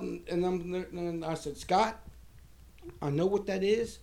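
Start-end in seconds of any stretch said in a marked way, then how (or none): 1.6-4.0 mildly raised, emphatic insistence; retold irate yell. Telling Scott he is leaving, retold irate yell. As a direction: build to a firmer "right now". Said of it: "So I yelled".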